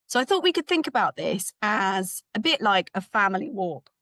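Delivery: hoarse, strained voice; losing voice. Real, not acted. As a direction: voice going hoarse. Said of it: "losing my voice already".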